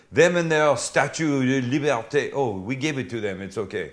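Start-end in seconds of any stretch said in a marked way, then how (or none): 0.1-2.3 mock French accent. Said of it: "That's a good accent".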